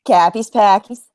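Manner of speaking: echoing in a mock Boston accent; flat Boston A in both words. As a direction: try on broad Boston. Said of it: "you have the Boston accent".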